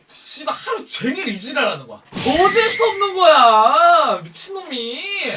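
loud, high, drawn-out cry of annoyance; real exasperated shout; exasperated outburst. Real, not acted. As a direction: blow up, stretching the words out. Venting about the annoying boaster.

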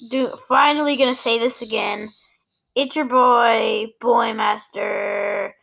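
flat robot voice. Acted. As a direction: speak like a robot. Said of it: "why do I have a freaking robot voice right now".

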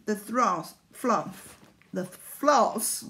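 words slurred by loose teeth; tongue tripping over loose dentures. Real, not acted. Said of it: "put my teeth back in".

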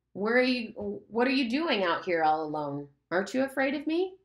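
taunting, then a sudden high jeer; menacing Lord of the Flies. Acted. The pig's head frightens Simon, taunting voice. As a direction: sneer and loom over him.

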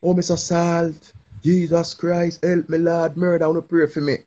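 mock wailing prayer. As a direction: overplay a self-pitying plea to Jesus. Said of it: "we say".

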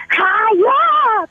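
hammed-up furious cry; mock angry outburst. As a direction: bark the insult like an angry texter. Reading angry listener text. (galit na pasigaw na pagbasa)

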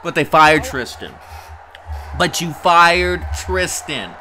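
indignant, building outburst; outraged protest. Real, not acted. Commentator protesting that they fired Tristan, outraged.

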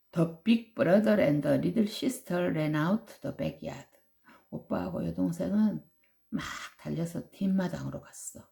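usual speaking voice

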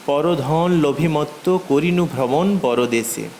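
slow verse line carried unbroken through to পরদেশে, then a stop; measured poetry reading, the line held together until পরদেশে; pause only after পরদেশে. Shown as a demonstration. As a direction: recite it slowly, stopping only once পরদেশে is finished. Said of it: "এই পরদেশে গিয়ে থামতে হবে".

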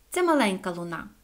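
ordinary delivery, nothing marked

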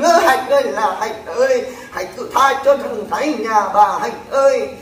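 wailing, drawn-out plea to Hạnh; mock pleading wail. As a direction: ham up a begging mother's lament. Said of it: "họ van xin". (giả giọng van xin than khóc)

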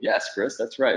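light, upbeat infomercial host; a hint of a TV pitchman selling it. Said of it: "It sounds like an infomercial".

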